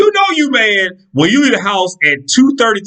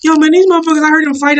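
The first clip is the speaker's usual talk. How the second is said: a lightly put-on voice of a gossiping friend, higher; a buddy spilling the news, pitched up; friend's voice; 10 semitones higher, 3 dB louder, faster than usual. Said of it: "if I talk to some of their friends".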